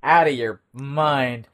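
slow, drawn-out mock villain line; mocking slow repeat. Co-host repeats the Goblin's cheesy line, slowly mocking. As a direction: savour the bad line word by word.

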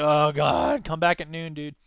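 lightly acted hungover groan; hungover student. Hungover friend putting off the petitioner, mock groggy. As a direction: drop it low, a touch groggy and put out. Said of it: "staggering in with their hangovers like".

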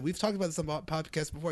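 soft, low cinema aside; hushed retold reminder. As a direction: act out a discreet reminder to a friend. Retells own answer during trailer.

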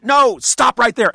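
loud, high, drawn-out protest; exclaimed objection. Retold or imitated. Reader retelling his reaction to the article, exclaimed objection. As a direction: call a halt, stretching the words loudly.

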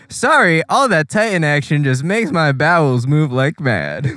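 lightly voiced cheerful scientist; mock Hanji. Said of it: "Hanji's like".

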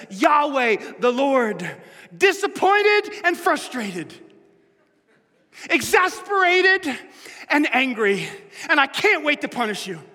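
a God fed up and ready to punish; exasperated angry God. Pretend. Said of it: "we'd have thought God would say something like this".

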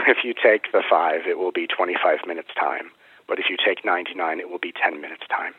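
lightly voiced biblical guide giving directions; a touch of solemn, loving sage, settling after a laugh; Melchizedek. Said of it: "he's talking to me in this very loving but biblical tone".

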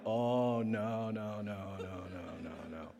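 dread. Retold or imitated. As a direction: shrink away in horror. Horrified fading refusal.

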